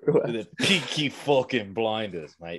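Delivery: hammed-up cockney geezer accent, half-failed; lightly done British geezer voice; mock British accent. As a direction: put on a bad London accent for laughs. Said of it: "I tried to do that in an accent".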